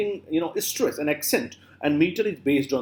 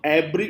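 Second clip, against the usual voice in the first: "abbrev-" stressed on the opening a, broken off; wrong first-syllable stress. Shown as a demonstration. Teacher showing what it's not, misplaced stress. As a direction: lean on the a of "abbrev-". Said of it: "it's not".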